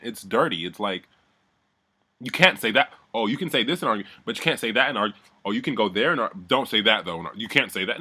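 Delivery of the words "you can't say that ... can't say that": mock rule-setting, heavy on the can'ts. Mocking housemates who set rules for an argument, mocking. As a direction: parody a fussy objector.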